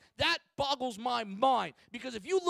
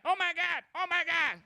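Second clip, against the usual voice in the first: higher, gushing excitement over a cute find; freaking out; 5 semitones higher than usual. Retold or imitated. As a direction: squeal like a fan spotting a celebrity. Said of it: "just starts freaking out, like".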